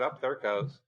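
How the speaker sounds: nonchalant, offhand remark; understated, matter-of-fact; very casual. Retold or imitated. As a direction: say it like it's no big deal. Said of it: "Very casually, very nonchalant".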